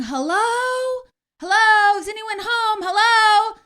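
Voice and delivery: high, very loud call into the house; yelling hello. Retold or imitated. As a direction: imitate the UPS guy yelling out. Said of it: "he starts yelling".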